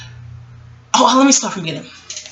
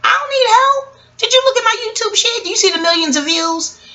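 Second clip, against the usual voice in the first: high-pitched indignant protest; affronted, high-voiced retort; indignant comeback; 9 semitones higher than usual. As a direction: fire off offended questions, pitched well up. Acts out her indignant comeback.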